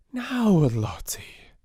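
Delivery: slow whispered soothing. A narrator's reading. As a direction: hush her gently. Sarah soothing the child.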